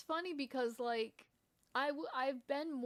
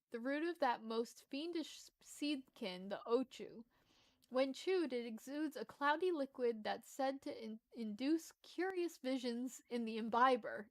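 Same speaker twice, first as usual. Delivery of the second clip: slightly lifted, lilting storytelling read; lightly performed quest-giver reading; game dialogue read-aloud; 2 semitones higher than usual. Acted. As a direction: read out a quaint fantasy character's lines. Reads game character dialogue aloud.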